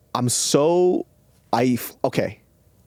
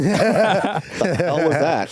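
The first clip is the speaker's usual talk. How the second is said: surprised; 5 semitones higher, much slower than usual. Real, not acted. Laughing in disbelief.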